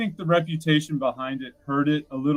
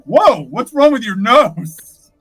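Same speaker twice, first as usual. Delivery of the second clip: put-on childlike girl voice; 6 semitones higher, 7 dB louder, much slower than usual. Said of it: "she's like".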